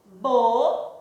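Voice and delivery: BO-NE-CO, three separate beats; syllable by syllable. Shown as a demonstration. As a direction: break Boneco apart with a pause after each syllable. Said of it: "Nós pronunciamos e quantas vezes nós abrimos a boquinha?".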